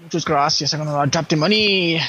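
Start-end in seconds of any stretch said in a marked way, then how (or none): 0.0-0.7 lower, put-on Spanish; mock Spanish accent. Gamer clowning before dropping the money, fake Spanish accent. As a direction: say it in unconvincing Spanish. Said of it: "'Cause that was not Spanish".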